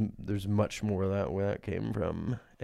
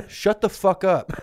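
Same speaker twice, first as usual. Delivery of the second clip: high, loud playful outburst through laughter; mock angry shout; 11 semitones higher, 11 dB louder than usual. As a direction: snap back loudly, half laughing. Mock quarrel after being shushed.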